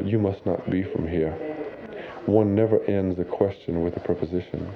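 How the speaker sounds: put-on measured, proper Northeastern accent, a little soft. Stranger correcting a Cajun student's grammar, mildly proper Northeastern accent. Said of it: "in a very proper Northeastern accent".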